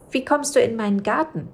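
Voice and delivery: a small witch jumping at a stranger; startled little witch. Acted. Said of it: "fragte sie".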